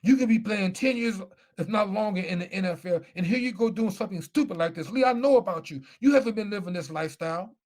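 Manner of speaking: a coach tearing into his player; coach blessing him out. Retold or imitated. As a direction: chew him out like an angry coach. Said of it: "he starts blessing me out".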